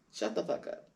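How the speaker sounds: hushed, breathy put-down; muttered insult. Retold or imitated. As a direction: mutter it coldly under your breath. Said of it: "and he was like".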